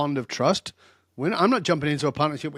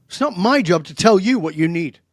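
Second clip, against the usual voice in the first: firm, louder rebuke that hits hard; very direct; 3 semitones higher, 5 dB louder than usual. Retold or imitated. Speaker scolding an entitled would-be speaker, blunt and loud. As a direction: lay down the law to her. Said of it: "'cause I was very direct".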